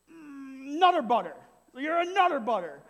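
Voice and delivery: loud exasperated coach sputtering an insult; frustrated coach. Retold or imitated. Coach yelling at a player, exasperated and loud. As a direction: blurt it out like a coach who can't cuss. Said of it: "only thing he could get out of his mouth".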